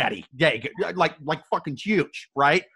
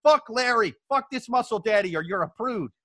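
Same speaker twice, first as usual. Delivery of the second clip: mock outraged yelling. Girlfriend mock-scolding her boyfriend for refusing Larry, in a hammed-up outraged yell. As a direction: yell at him like he's the prude.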